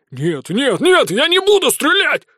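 Нет repeated until the voice cracks into a shout; building to a scream. Acted. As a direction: start steady and break into a yell. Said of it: "всё громче и громче повторять, в конце уже срываясь на крик".

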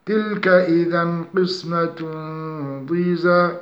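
slow melodic tajweed chant; Quranic recitation. Shown as a demonstration. Tajweed teacher reciting an example verse slowly.

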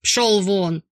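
loud shout to get out; bellowing. Acted. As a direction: throw him out with a roar. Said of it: "на пределе возможных децибел". (громкий рёв: «Пшёл вон!»)

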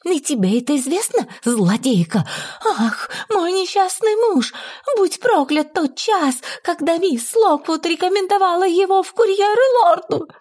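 furious lament. Acted. Widow curses the hour her husband was hired, high furious lament. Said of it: "вскричала Эмилия страшным голосом".

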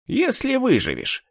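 high-pitched, smug threat; haughty sneer. A narrator's reading. Torin threatens the headman's daughter, haughty sneer. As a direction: taunt through an arrogant smile. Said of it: "кривился в надменной улыбке Торин".

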